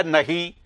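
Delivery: नहीं with the final ई through the nose; nasal pronunciation. Shown as a demonstration. Teacher explains chandrabindu, नहीं ending through the nose. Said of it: "नाक से बोलते हैं".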